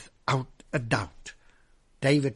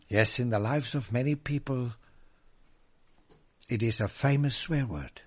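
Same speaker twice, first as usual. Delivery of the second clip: ordinary talk, nothing marked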